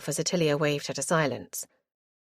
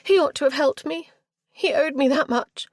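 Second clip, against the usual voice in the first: high, louder sulky complaint; petulant girl; 10 semitones higher, 5 dB louder than usual. A narrator's reading. Girl blaming Pedwardine, petulant. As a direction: toss it out resentfully. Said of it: "Richenda tossed her head".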